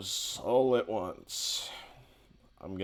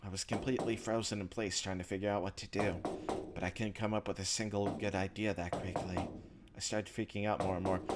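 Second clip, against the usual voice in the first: measured first-person narration, softer than the chat; story narration; 6 dB quieter, faster than usual. A narrator's reading. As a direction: read the inner monologue like a story. Reads visual novel narration aloud.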